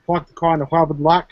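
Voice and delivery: lightly put-on Boston accent; mock Boston accent. Teasing a man about where he's from, light Boston accent. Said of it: "kind of Boston kind of type shit".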